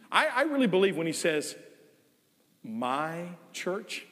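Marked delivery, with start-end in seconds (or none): 2.6-4.1 soft affectionate my church; tender. Shown as a demonstration. Preacher showing Christ's fondness, softly tender. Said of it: "with the greatest of affection".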